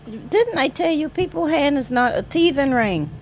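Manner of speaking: loud, playful telling-off; playful scolding. Real, not acted. Owner playfully scolding the puppy for biting hands.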